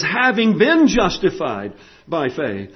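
"been" punched as the correction; "having been justified" stated as settled, weight on "been"; stress on been. Shown as a demonstration. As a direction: hit "been" firmly, then fall away on "faith". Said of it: "No, he says".

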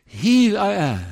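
calling out to people, high and slow; God. Acted. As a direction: proclaim it as a divine summons. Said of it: "to say".

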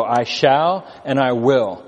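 slow, firm "I shall and I will"; stress on shall and will. Shown as a demonstration. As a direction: weigh "shall" and "will" deliberately. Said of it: "I underline those words".

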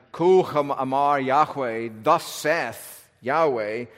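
slow, measured pronouncement; weighty, drawn-out proclamation; divine pronouncement. Shown as a demonstration. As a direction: declare it slowly, as if God speaks. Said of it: "basically a divine pronouncement".

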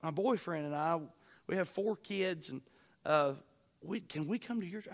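hesitant, halting shy request; imitating a shy, faltering asker; a little shy. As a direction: stumble shyly toward the question. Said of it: "she was a little shy about it".

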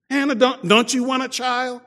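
high mock taunt, sing-song cruelty; sneering rival. Rival wife taunting childless Hannah, high sneering voice.

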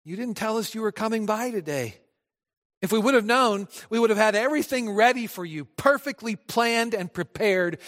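flustered hostess hurrying after a guest; Martha calling out. Retold or imitated. Preacher voicing Martha calling Jesus at her door, eager. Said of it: "she cries out".

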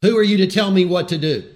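loud, indignant pushback against being told what to do; angry retort. Acted. Preacher acting a defiant listener, angry retort. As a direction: snap back defiantly. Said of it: "Are you responding with anger?".

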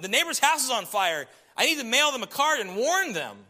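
frantic. Acted. Spouse dialogue, frantic explanation.

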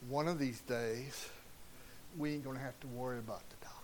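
quick hushed whisper, almost no voice. Real, not acted. Preacher whispering a secret promise to his congregation, hushed and fast.

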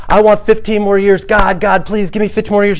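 high, loud mock begging; greedy pleading. Preacher mimicking people begging God for fifteen years. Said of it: "I've heard people say".

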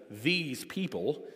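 "these people" slowed right down, each word set apart; slow, pointed "these people", keeping them apart. Acted. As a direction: drag out "these people" with distance. Drawing a line around opponents.

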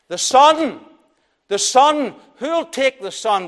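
preacher echoing the auctioneer to the congregation; auctioneer's call. Acted. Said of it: "much like the auctioneer".

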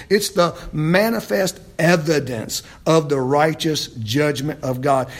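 firmly weighted scripture quote; emphatic. Acted. Preacher quoting Paul's verse five to the church, emphatic. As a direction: land each key word with emphasis. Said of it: "It's an emphatic statement".

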